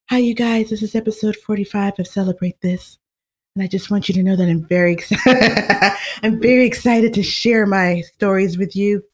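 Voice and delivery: gentle peaceful host voice, a singer's style; podcast intro in a light voice imitating a singer; impression of a singer. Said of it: "way better than my impression".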